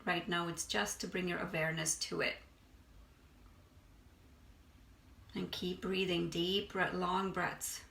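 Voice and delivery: unhurried meditation guide, long pauses between phrases; guided meditation. Acted. Meditation teacher guiding listeners to release stress, unhurried guided meditation. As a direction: ease them through breath and body, leaving space.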